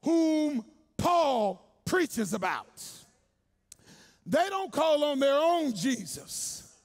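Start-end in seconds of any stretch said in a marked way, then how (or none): 0.0-2.8 exorcists' command. Retold or imitated. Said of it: "they literally say".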